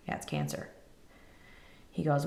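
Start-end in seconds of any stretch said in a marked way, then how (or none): 0.1-0.7 stunned whisper. Retold or imitated. Answering the doctor, stunned.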